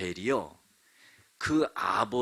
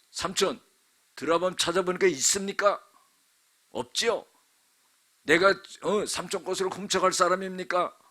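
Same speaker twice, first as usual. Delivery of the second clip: higher, louder indignant protest; furious rebuke; 7 semitones higher, 5 dB louder than usual. Acted. Jacob rebuking his uncle, outraged and loud. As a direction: tear into him, outraged. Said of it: "노발대발하면서 막 화를 내는 거예요".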